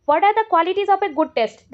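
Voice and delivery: very slow, word by word, for students to write down; reading an exam question aloud at dictation pace. Shown as a demonstration. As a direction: dictate it slowly so they can copy.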